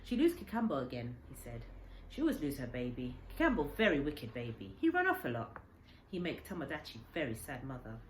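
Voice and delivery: put-on old man explaining the wayward baby orangutan; lightly voiced old Japanese man. Old man tells boy about Kikambo, lightly voiced. Kensuke's voice in the story.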